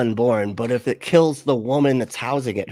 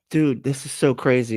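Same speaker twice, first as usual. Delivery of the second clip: ordinary delivery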